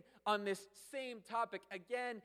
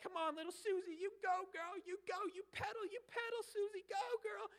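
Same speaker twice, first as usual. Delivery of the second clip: put-on much higher, eager cheer for a child on a bike; cheering parent; 11 semitones higher than usual. Parent cheering little Susie to pedal her bike, high excited cheer. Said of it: "and they're like".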